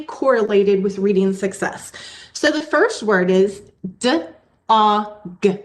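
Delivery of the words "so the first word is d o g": D-O-G spelled out sound by sound, slow and spaced; teacher sounding out a word slowly for the class; segmented sounds. Shown as a demonstration. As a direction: pull D-O-G apart into separate sounds. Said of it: "did you notice how I segmented the sounds apart".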